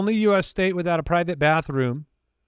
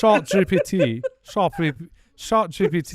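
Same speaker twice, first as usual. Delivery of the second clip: French accent. Shown as a demonstration. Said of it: "with a French accent".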